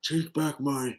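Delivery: a slow, strange wrestler promo voice; odd promo voice. Retold or imitated. Imitating Roman Reigns on the mic, slow and odd. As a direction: drag it out like a half-hearted heel promo. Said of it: "I don't know why I sound like that".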